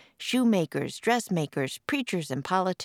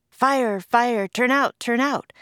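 high, loud ringing cry of fire; loud alarm cry; bell's alarm call; 7 semitones higher, 6 dB louder, slower than usual. A narrator's reading. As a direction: call it out like a clanging alarm bell. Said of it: "the fire bell jangled".

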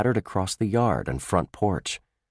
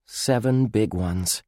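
dejected; 2 semitones higher, slower than usual. Acted. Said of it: "drooped lower into his chair".

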